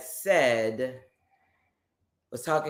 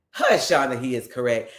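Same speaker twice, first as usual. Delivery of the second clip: normal talking voice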